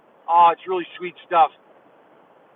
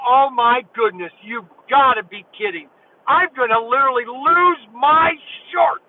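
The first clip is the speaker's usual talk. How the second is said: retold amazement; 2 semitones higher than usual. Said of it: "I almost lost it".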